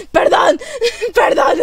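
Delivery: high, slow apology breaking into laughter; imploding with emotion. Real, not acted. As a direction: apologise through real laughter, high and drawn out. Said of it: "estoy, estoy implosionando". (perdón entre risas, desbordada de emoción)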